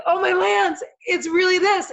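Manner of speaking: tearful, elated shout of recognition; overjoyed cry. Real, not acted. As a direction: cry out as the sign lands. Realizing the sign came.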